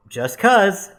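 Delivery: high, loud, offhand answer; coy evasive reply. Retold or imitated. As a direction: toss it off in a high, light voice. Own reply, contrasted with man's echo.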